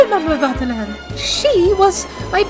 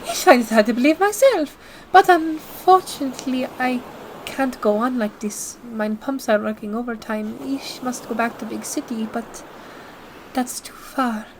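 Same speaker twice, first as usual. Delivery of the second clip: a worn-out German liner putting on a brave face; German accent. Acted. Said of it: "Where are you from? Deutschland?".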